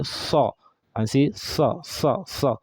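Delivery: Sa pushed out with effort; effortful Sod demo. Shown as a demonstration. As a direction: strain to form the Sod sound. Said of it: "put in some effort and say".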